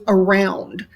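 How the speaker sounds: "around" with the weight on "round"; stress on second syllable. Shown as a demonstration. Teacher demonstrates an iamb, "around" stressed on "round". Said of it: "round is the stressed syllable".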